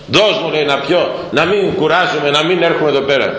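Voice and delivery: a hint of teasing mockery; mockingly. Preacher voicing the Samaritan woman, who asks the Lord for water mockingly. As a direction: toss it off lightly, half mocking. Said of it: "το είπε κοροϊδεύοντας".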